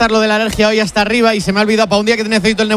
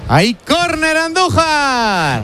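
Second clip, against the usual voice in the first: drawn-out corner call, name stretched long; commentator's call; 5 semitones higher, much slower than usual. Real, not acted. Commentator alerting Andújar to a corner, drawn-out call. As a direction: sing out the call to your colleague.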